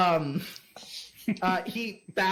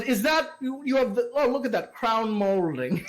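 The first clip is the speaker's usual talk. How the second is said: gushing lord; 6 semitones higher than usual. Acted. Lord gushes over decor.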